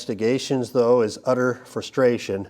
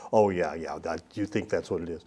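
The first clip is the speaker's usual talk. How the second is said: softer, lower, dismissive "sure, you think"; inward sarcasm; 5 semitones lower, 6 dB quieter than usual. Pretend. Preacher voicing the listener's silent doubt, soft and sarcastic. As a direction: roll your eyes inside as you say it.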